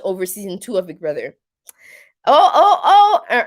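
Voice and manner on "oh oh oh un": excited gasp. Real, not acted. Spots a peekaboo viewer in chat.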